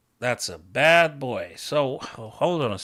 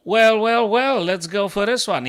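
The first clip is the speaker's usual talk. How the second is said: gleeful buildup; 7 semitones higher, 6 dB louder than usual. Real, not acted. Hyping aggressive move.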